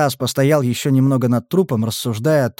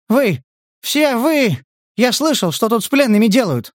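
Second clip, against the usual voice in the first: high, desperate cry; hysterical accusation; 10 semitones higher than usual. Acted. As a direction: fling it out in hysterics. Hysterical boy accusing mercenaries. (истеричный выкрик)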